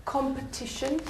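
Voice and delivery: "competition" modelled with its strong syllable on TI; stress demonstration. Shown as a demonstration. Teacher quizzes class on the strong syllable, "competition" stressed on TI. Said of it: "Where's the strong syllable?".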